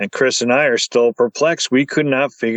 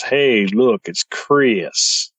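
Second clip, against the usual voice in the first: imitated southern drawl; much slower than usual. Repeating what the EVP said, southern drawl. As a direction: draw out the name, southern style. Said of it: "in a southern draw".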